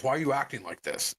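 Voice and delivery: quick, mildly annoyed challenge; retold accusation. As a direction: toss the blame at the customer. Worker throws accusation at customer.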